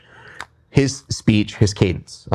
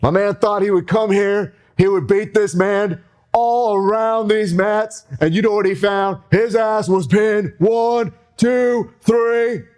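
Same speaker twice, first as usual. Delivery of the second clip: higher, hyped-up ring promo; wrestling promo; 5 semitones higher than usual. Pretend. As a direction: hype the crowd like a wrestler on the mic. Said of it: "I'm gonna cut a promo on you".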